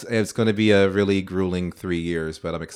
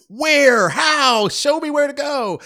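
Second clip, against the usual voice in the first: exasperated high quote; 4 dB louder, much slower than usual. Retold or imitated. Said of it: "I'm like".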